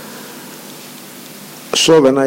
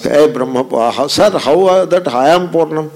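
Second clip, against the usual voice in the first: student asking; 4 semitones higher than usual. Retold or imitated. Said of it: "Suppose you get up and ask".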